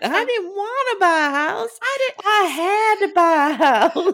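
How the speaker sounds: put-on Southern belle voice. Quoting a Midwestern woman, the speaker does her as a Southern Belle. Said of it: "I do her as a Southern Belle".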